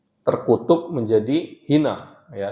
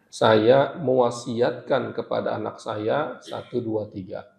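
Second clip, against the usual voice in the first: solemn last will; slower than usual. Shown as a demonstration. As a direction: say it like a dying parent's final bequest, slowly. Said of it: "itu biasanya lebih kuat berkaitan dengan wasiat". (wasiat yang khidmat dan pelan)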